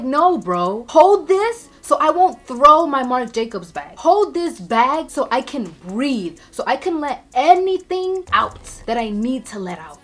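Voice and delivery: worked-up, forceful outburst; losing her mind. Retold or imitated. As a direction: holler at boyfriend, about to explode. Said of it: "I start losing my mind".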